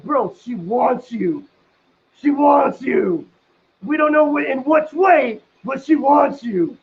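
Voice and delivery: slow, emphatic urging; insistent bro. Retold or imitated. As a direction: push it hard, bro. Friend urging him insistently.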